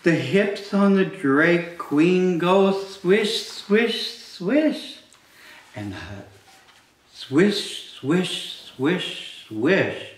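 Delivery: sing-song, slowed read-aloud; bouncy storytime voice, swishes rising; reading to children. Acted. Reading picture book aloud to kids.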